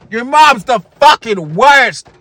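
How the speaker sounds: hammed-up gamer kid yelling at his friend; yelling the insult at the other kid, drawn out; mock kid yell. Kids yelling at game, acted.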